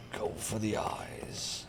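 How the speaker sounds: whispered slowly; whispering. Real, not acted. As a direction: breathe it out unvoiced. Whispered line.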